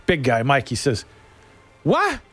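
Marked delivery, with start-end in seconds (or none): 1.8-2.2 high-pitched incredulous comeback; mock-indignant big guy; imitated boat buddy. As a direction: call back at the shore, voice pitched up. Mike answers the screaming man.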